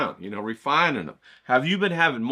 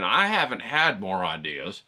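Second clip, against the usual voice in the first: mock whiny viewer; 5 semitones lower than usual. Mocking a lazy viewer.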